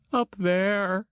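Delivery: high, distressed woman's call; Christine crying out. Acted. Christine desperately points the way to Julio, high and distressed. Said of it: "she cried".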